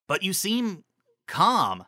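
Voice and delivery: Lyra's voice. A narrator's reading. Lyra voiced.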